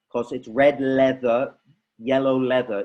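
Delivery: "red leather, yellow leather" slowed for teaching; slow tongue twister demo. Shown as a demonstration. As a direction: spell it out slowly for the kids. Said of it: "repetition of our tongue going up and down".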